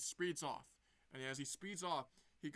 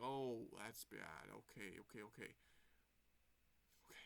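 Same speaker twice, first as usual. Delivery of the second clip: worried mutter; 6 semitones lower, 8 dB quieter than usual. Retold or imitated. Sonic alone seeing temple.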